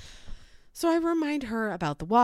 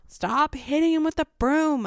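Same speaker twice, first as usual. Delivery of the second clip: high-pitched mom's yell, slightly raised volume; retold yell; 8 semitones higher, 4 dB louder than usual. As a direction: re-enact a mother yelling an order. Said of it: "I yell".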